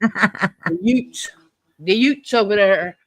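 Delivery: "Utes" for youths, hard T ending; teasing imitation, "Utes" with no TH; Cousin Vinny mispronunciation. Friend teasing her by quoting Cousin Vinny, mock mispronounced "Utes". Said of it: "some of her words come out like".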